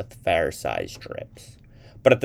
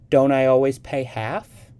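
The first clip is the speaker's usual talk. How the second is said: mock-innocent question, a little raised; understated innocent tone as she dodges paying; innocently; 8 semitones higher, 7 dB louder than usual. A narrator's reading. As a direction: play it wide-eyed and innocent, lightly. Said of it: "she asked innocently".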